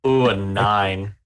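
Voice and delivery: delighted sadistic glee; gleeful. Real, not acted. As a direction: savour the bad roll with glee. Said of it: "I can hear the smile on your face".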